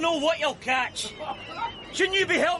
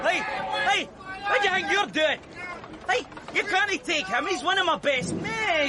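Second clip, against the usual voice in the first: protest; 3 semitones higher than usual. Acted. Protesting press gang taking man.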